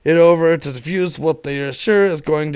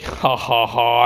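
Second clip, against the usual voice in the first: real laugh at himself; 3 semitones lower than usual. Real, not acted.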